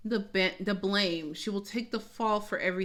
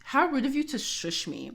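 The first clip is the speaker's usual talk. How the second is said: mock indignant. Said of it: "I'm like".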